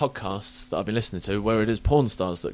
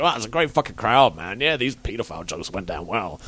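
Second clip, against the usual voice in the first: loose comedian voice. Retold or imitated. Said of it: "they come back and go".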